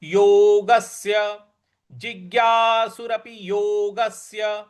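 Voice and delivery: teacher stressing the conjunct; stress on half स. Shown as a demonstration. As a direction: hit the स in योगस्य. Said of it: "आधा स है उस पर हमको आघात देना है".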